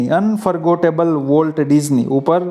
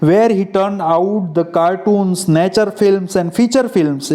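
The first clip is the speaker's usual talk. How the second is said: text reading; 2 semitones higher, much slower than usual. Acted.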